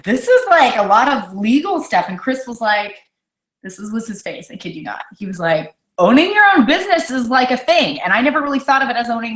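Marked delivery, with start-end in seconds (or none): 0.0-2.0 mock overwhelmed. Retelling reading the agreement. 6.0-8.0 imitating husband. Husband Chris quoted.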